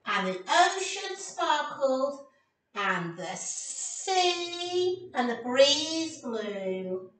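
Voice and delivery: very slow, dreamy phrasing; storybook reading. Acted. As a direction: paint the seaside for the kids.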